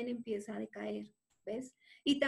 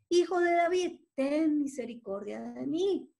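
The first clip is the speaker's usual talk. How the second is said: loud cry; 3 semitones higher, 5 dB louder than usual. Acted. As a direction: cry for mercy from afar. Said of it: "mucho más alto clamaba".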